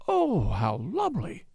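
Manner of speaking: slow, drawn-out swoon of delight; rapturous whisper. A narrator's reading. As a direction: breathe it out rapturously, drawing out the words. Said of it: "she whispered rapturously".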